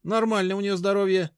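high, tight, guarded voice; high, wary woman's retort; tense, suspicious. A narrator's reading. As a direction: brush him off tensely. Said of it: "напряжённо прищурилась Машка".

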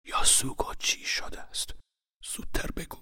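urgent hushed whisper; very quiet whisper. A narrator's reading. Uncle urging niece to speak, urgent whisper. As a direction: press her for news, but whisper. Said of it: "با صدایی خیلی آهسته گفت".

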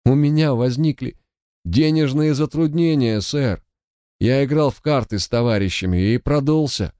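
a whining, hopeless confession; plaintive, hopeless. Acted. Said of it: "в его голосе появилась жалобная, безнадёжная нотка".

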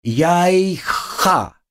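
high squeaky bug voice; insistent little insect squeak; cockroach voice. Acted. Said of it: "Поправился Эдик".

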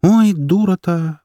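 mother sighing at herself, slow and rueful. Acted. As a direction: drag it out with a heavy sigh. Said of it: "вздохнула она".

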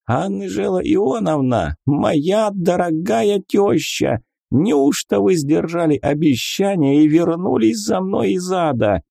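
high, amazed greeting; surprised exclamation. A narrator's reading. Wizard greets the figure as his mother-in-law, astonished. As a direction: gasp it out in drunken wonder. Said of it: "удивлённо произнёс".

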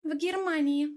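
lightly smiling female character voice. A narrator's reading. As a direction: lift the pitch and smile. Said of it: "улыбнулась Тамара".

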